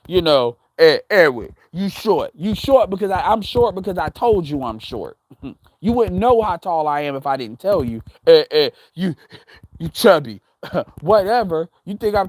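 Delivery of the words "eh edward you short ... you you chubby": low, dopey stammering mock voice; mocking troll voice.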